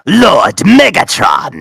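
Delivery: slow robot lieutenant shout; Starscream. Retold or imitated. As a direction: hail your master like a scheming robot. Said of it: "you actually sound like Steve Blum".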